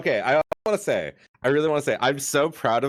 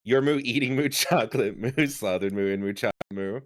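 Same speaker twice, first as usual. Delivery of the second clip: moo talk; 2 semitones lower than usual. Pretend. Inserting Moo after every word.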